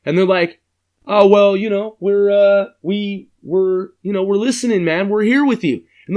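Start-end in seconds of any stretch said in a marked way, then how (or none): 1.1-5.8 put-on higher, hesitant kid voice; fumbling kids. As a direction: stammer like a caught kid. Kids answering the caller again.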